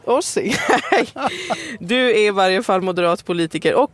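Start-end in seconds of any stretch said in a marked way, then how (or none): 0.0-0.5 "Orsing" repeated short in an attempted Skåne way; attempted Skåne pronunciation. Shown as a demonstration. Host practises guest's surname before laughing, attempted Skåne "Orsing". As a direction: have another go at Skåne "Orsing". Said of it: "Det är det skånska uttalet".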